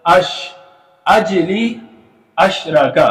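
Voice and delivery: अजली with the j bounced, अशरका plain; qalqala contrast. Shown as a demonstration. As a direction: rebound on the j of अजली. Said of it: "अब अजली यहाँ पे कलकला हो रहा है".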